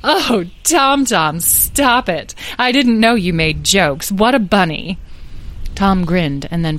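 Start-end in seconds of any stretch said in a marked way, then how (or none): 0.0-5.0 laughing fairy. Acted. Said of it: "Carnelian laughed uproariously".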